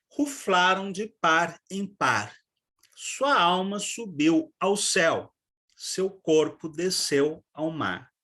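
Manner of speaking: measured, even poetry recital; flowing first reading of the poem. Shown as a demonstration. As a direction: read the verses aloud for the class. Teacher reads the poem aloud.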